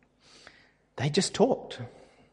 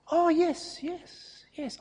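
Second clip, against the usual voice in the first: imitated eager yes; 13 semitones higher, 4 dB quieter, slower than usual. Chemist's excited recognition.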